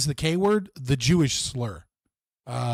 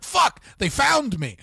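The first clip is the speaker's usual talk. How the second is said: mock panicked shout; 9 semitones higher, 5 dB louder, slower than usual. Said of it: "they're like".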